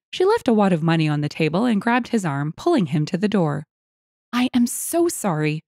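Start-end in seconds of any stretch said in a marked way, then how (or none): 4.3-5.6 higher-pitched, earnest apology; apologetic wife. A narrator's reading. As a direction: apologise on your husband's behalf. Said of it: "she said to Donna and the server".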